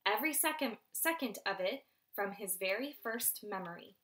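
lively read-aloud narration; storyteller voice for children; story narration. A narrator's reading. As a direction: read it to the class with drama. Teacher reads novel aloud.

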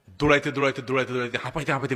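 panting, running in; out of breath. Shown as a demonstration. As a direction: gasp between words. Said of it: "ভিতরে ঢুকে এরকম হাঁ হাঁপাইতে".

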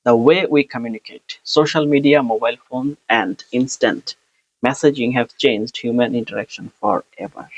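slow, careful practice reading; slow exam-style read-aloud. Shown as a demonstration. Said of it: "যেমন".

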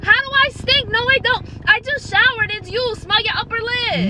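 put-on indignant girlfriend. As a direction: throw it back at him, offended. Girlfriend defends herself in argument.

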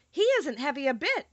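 quick, eager reassurance; eager little girl pleading with the Stork. Acted. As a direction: rush it out, keen to help. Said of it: "said Dorothy eagerly".

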